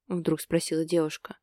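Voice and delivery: plain reading voice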